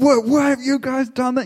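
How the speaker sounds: very high-pitched scream. Speaker pictures a mother arriving home looking for her sons, retelling a scream. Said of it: "just getting out and just like screaming like".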